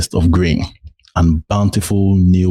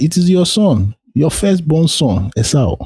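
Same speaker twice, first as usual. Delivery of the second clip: a higher, eager son's voice; Esau answering; 8 semitones higher than usual. Acted. Esau telling his blind father who he is, eager and raised. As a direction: announce yourself proudly to your father.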